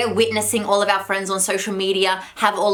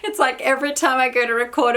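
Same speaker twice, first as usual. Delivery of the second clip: out of breath; 4 semitones higher than usual. Real, not acted. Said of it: "I'm out of breath".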